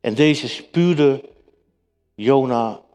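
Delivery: scripture reading. Acted. Preacher reads Jonah's prayer to the congregation, solemn reading.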